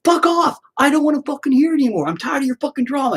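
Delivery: mock exasperated crowd; fed-up yell. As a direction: snap at them, done with the drama. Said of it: "everybody goes".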